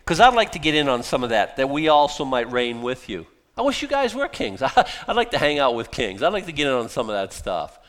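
mock-eager envy; playful sarcastic wishing. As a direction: pretend to be keen to join the kings. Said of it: "he's being sarcastic".

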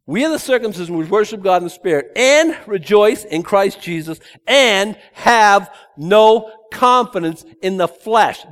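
loud, high ringing declaration; proclaiming scripture. Real, not acted. Preacher reading Philippians aloud to congregation, loud and ringing. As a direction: preach the verse out with force.

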